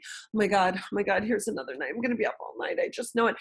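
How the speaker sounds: hushed, reliving night-time dread; soft, quick worried self-talk; anxious dread. Retold or imitated. New mother dreading another sleepless night, anxious. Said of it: "I would get this horrible anxiety".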